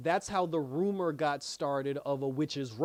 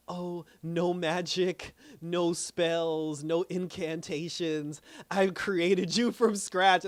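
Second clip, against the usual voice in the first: slow, swelling declaration, getting louder; dramatic villain line; 3 semitones higher, 4 dB louder, much slower than usual. Retold or imitated. Fan retelling Agatha's big speech, slow grand declaration. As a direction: draw it out grandly then belt the last line.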